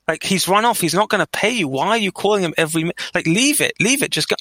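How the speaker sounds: exasperated plea to let it go; exasperated self-reasoning. Acted. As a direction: talk yourself down, exasperated. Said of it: "I'd be saying to myself".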